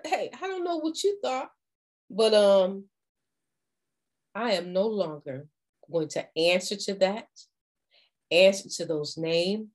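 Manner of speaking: polite. Shown as a demonstration. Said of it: "just let them know politely".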